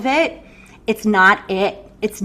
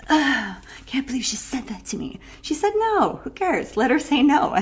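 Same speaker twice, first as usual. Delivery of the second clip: breathy mocking mutter, half whispered; whispered mock sulk; mock grumbling whisper; 4 semitones higher than usual. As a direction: grumble it under your breath, hurt and sulky.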